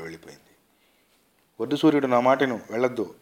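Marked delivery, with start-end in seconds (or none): 1.6-3.1 higher, louder angry forbidding; angry shout. A narrator's reading. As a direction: shout after someone to stop. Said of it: "గట్టిగా కోపం గరుస్తూ".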